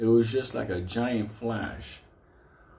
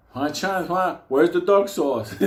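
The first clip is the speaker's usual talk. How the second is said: mock demand; 8 semitones higher, 6 dB louder than usual. Spanky confronting delivery guy.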